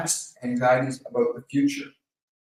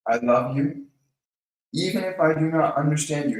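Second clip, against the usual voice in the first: gentle, soft repeat. Shown as a demonstration. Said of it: "just repeat that gently".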